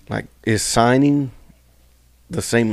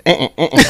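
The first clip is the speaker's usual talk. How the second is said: short repeated "eh" grunts, higher pitched; imitated noise; 6 semitones higher, 4 dB louder than usual. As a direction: mimic her little string of eh-eh-ehs. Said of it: "She looks back and goes".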